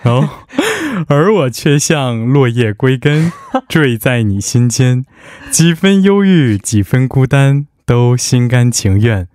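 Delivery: slow, formal announcer reading; broadcaster voice. Shown as a demonstration. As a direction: read lyrics like a radio host. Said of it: "我要先切换到这个播音腔".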